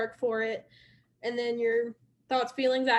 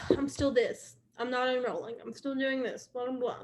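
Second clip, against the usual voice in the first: mildly fed-up, deflated grumble; sigh, then trail off softer into mock complaint; frustrated; 4 dB quieter than usual. Recruiter voices a stuck team member's thoughts, mildly frustrated. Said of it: "then you're feeling frustrated or annoyed".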